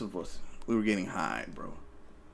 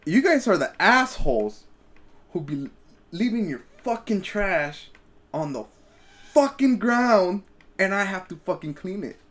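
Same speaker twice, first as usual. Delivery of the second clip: angry gravekeeper; 5 semitones higher than usual. Retold or imitated. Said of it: "He goes".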